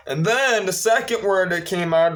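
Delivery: ordinary delivery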